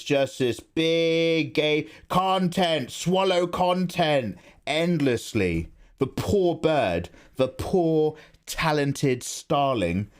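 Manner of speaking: slow, theatrical mock outrage; slow, hammed-up grievance for the starling; mock-dramatic lament. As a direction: ham up the poor bird's plight. Dramatic kookaburra rant, slowed.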